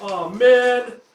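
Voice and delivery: high, loud flustered calling; nervous elf. Acted. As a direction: call after him, flustered. Elf groans, left behind.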